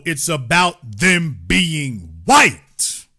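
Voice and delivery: slow build to a punched WHITE; stress on WHITE. Real, not acted. Correcting listeners on the Latino label, stress on WHITE. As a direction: stretch it out, landing hard on WHITE.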